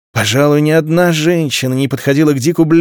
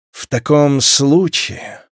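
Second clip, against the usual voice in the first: haughty; much slower than usual. Acted. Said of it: "надменно произнесла вдовствующая герцогиня".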